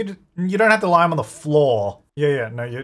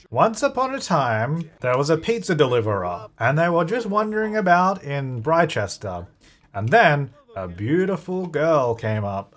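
bedtime story. Pretend. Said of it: "Uh, bedtime".

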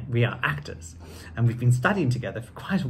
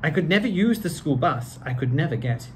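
lively storybook reading; reading to children. A narrator's reading. Actor reading Doctor Seuss to children in a lively voice. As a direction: read it out like story time for kids. Reads book aloud.

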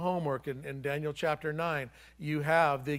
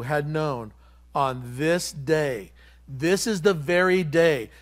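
loud, emphatic preaching delivery; declaimed scripture; 6 dB louder than usual. Acted. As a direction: proclaim Jesus' lament to the city. Declaims Jesus' lament over city.

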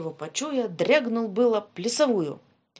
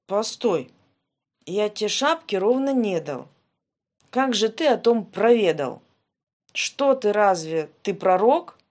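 loud pleading protest; 8 dB louder than usual. Acted. Ivan argues with the tsar.

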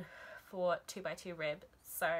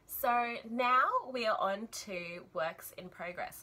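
talking with wool in mouth; words muffled by a mouthful of yarn; mouth full of wool; 3 semitones higher, 4 dB louder, slower than usual. Real, not acted. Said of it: "Sorry, I have wool in my mouth".

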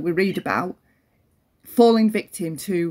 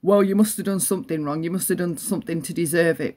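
dismissive mother; 3 semitones lower, faster than usual. Retold or imitated. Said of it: "the reaction of my mother".

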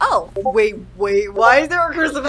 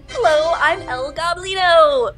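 El Goblino voice; 3 semitones higher, 3 dB louder than usual. Acted. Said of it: "Hey, El Goblino".

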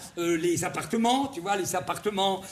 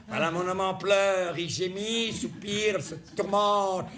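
Frédéric Mitterrand. Retold or imitated. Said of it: "On peut l'imaginer, euh, par, euh, Frédéric Mitterrand".

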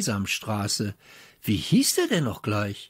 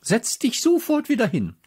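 teacher ordering; 12 semitones higher than usual. A narrator's reading. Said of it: "rief Frau Popotowski".

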